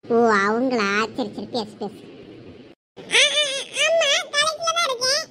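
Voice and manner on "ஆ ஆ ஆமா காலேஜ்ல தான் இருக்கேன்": stammering, high-pitched flustered answer; flustered lie. Acted. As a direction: stall on the first word, then lie in a high voice. Lying to caller on phone.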